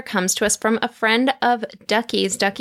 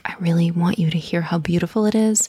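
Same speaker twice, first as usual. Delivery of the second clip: pleasing reading voice; 4 semitones lower than usual. Shown as a demonstration. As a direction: read it gently, almost whispering. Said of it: "modulate my voice ... more pleasing".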